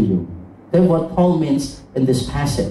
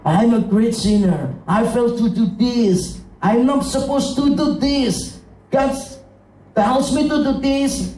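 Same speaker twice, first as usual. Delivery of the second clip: acted guilty lament, climbing higher; acted self-reproach; 4 semitones higher than usual. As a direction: plead the failings in a rising voice. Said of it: "sometimes we feel that".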